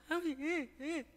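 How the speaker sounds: mock-tearful whimper rising high; high, teary lament of the old days; old weepy prayer. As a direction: imitate how you used to whine in shame. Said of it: "전에는 막".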